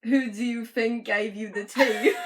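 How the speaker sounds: lightly put-on slurred British voice, laughing; slow, laughing toothless British voice; toothless speaker. Harry after giving away his teeth, mock toothless voice. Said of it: "I don't think he would sound like that".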